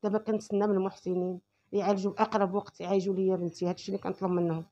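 quiet, broken voice; weary and near tears, softly; despairing, quiet. Real, not acted. Mother's despair over daughter. (بصوت حزين منكسر)

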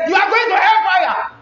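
high-pitched mock condemnation; condemning preacher. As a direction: hurl it like a threatening preacher.

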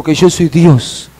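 firm retold divine pronouncement; fuller-voiced, solemn restatement; emphatic declaration. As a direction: declare it with weight and authority. Repeats God's answer with force.

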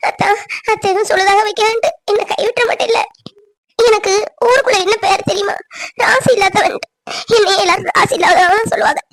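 a woman close to crying, begging for reassurance; tearful pleading. Acted. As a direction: plead through tears. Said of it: "அழாத".

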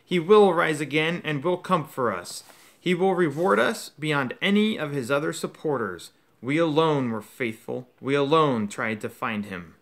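loud, fervent, rising vow; fanatical witch. Acted. Defiant witch vowing to the court, loud and fervent. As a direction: swear devotion to the dark lord. Bellatrix vows loyalty at trial.

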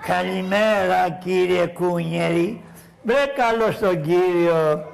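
slow, low, overly formal "Καλημέρα, κύριε Κουνιέρι"; mock polite greeting. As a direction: greet him with exaggerated courtesy.

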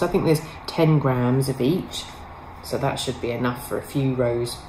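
hiccuping between words; talking through the hiccups. Real, not acted. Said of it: "I've got hiccups".

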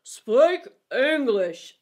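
very slow, loud put-on creature voice; heckling Eaglet. A narrator's reading. Eaglet interrupting the Dodo's long words, loud protest. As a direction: bellow it in a drawn-out character voice.

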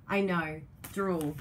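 ordinary delivery

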